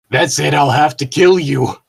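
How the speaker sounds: a cartoon villain declaring murder; over-the-top threat; hammed-up villain threat. Reading villain fanfic line.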